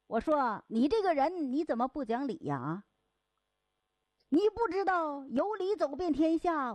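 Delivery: tired porter arguing his case; quarrelling. Acted. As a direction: scold him about being reasonable. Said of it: "这两个人就吵起来了".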